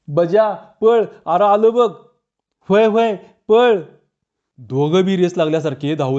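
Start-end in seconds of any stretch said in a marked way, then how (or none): 0.1-1.9 higher, louder shout to run; alarmed yell. A narrator's reading. Friend yells to Baja as the cat chases them, alarmed shout. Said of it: "धाडसी Shirpya ओरडायचा". 2.7-3.8 high, loud, slowed cry to run; panicked shout. A narrator's reading. Fleeing man answers his friend's warning, panicked shout.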